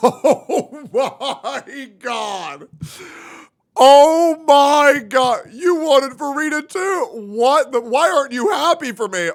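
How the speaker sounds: loud high mock outrage; mock shouting. Cohost mocks the gamer husband, loud mock outrage. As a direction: yell it like a scandalized fan.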